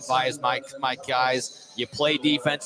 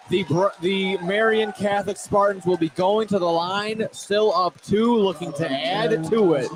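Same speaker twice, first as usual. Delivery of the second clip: live basketball play-by-play, energetic; play-by-play call; 3 semitones higher than usual. Acted. Commentator calling a double overtime free throw.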